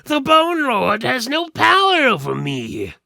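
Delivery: high, loud put-on skeleton voice; a caged skeleton talking big to strangers. Caged skeleton pleads with the party, high and loud.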